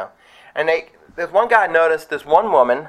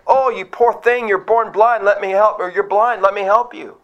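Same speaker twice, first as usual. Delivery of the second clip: mock pity; 6 semitones higher than usual. Mock pitying Jesus.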